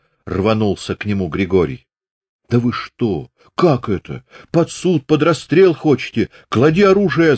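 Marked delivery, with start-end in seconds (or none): 2.5-7.4 yelling. A narrator's reading. Sergeant yelling at the men to drop the gun. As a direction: shout them down. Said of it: "заорал урядник".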